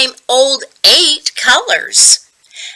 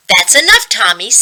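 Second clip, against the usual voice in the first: stern scolding; 4 dB louder, faster than usual. Acted. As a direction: snap at the boy to stop. Teacher scolding Tommy.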